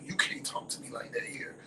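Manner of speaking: imitated near-whisper of reproach; hushed scolding. Friend scolds her in front of the people, hushed. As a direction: shush her under your breath.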